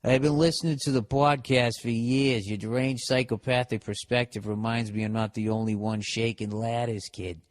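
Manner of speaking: put-on Boston local; mock Boston townie accent. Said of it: "Is this guy from Boston?".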